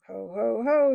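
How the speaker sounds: loud mocking ho ho; jeering chuckle. A narrator's reading. The ape jeering at the beasts, chuckling. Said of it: "he chuckled".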